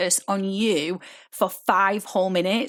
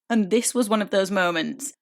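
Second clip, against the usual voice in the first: ordinary talk, nothing marked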